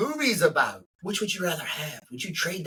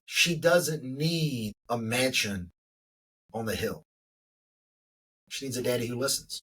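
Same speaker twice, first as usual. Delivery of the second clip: softer, choked-up realization; emotional, quiet; 5 semitones lower, 3 dB quieter than usual. Real, not acted. Father admitting what his daughter needs, close to tears. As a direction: let the feeling catch in the throat, quietly. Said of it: "hard for me not to get emotional".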